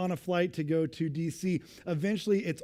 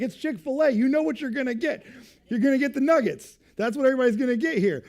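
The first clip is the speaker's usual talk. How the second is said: much higher and louder, incredulous; mock exasperation; 8 semitones higher, 7 dB louder than usual. Telling the drive-thru ditherer what to order, exasperated. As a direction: scold them like it's obvious. Mock lecturing indecisive customer.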